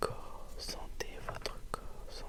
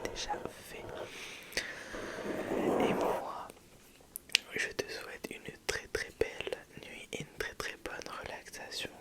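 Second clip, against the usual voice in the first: ASMR whisper. Real, not acted. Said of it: "une toute nouvelle vidéo A S M R".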